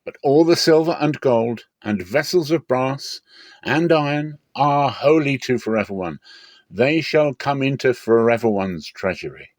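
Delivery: rally the army before the walls fall; rousing battle cry. Acted. Joshua calling the army to shout at Jericho, rousing and loud.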